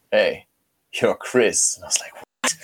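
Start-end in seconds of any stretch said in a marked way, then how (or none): 0.1-1.8 eerie hushed voice. Retold or imitated. Stranger in the mirror speaks. 2.1-2.6 whispered what. Retold or imitated. His reply to mirror.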